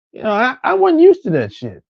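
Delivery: ordinary delivery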